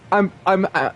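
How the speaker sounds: happy, broken false starts; speechless stammer. Real, not acted. Streamer too happy about the doll to speak, stammering. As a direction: stumble over the words, overjoyed. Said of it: "I can't even speak".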